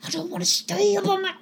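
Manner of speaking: very high, rushed whimpering plea; panicky whine. Acted. Guard begs partner not to leave him, whining. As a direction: whine it quickly, dreading being left. Scared guard pleads once more.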